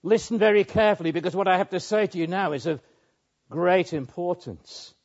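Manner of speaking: preacher voicing Jesus telling Peter to listen; Jesus urging Peter. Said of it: "Peter, he's saying".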